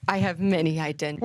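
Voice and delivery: low put-on secretive voice; mysterious man of many identities; disguised voice returning. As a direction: slip back into the deep disguise. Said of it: "Where did the voice come back?".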